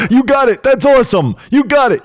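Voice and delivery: very high, elated cheering; happy for them. Acted. Acting the coach delighted at a student's breakthrough, elated. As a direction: celebrate the breakthrough in a high, excited voice. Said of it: "You'd be happy for them".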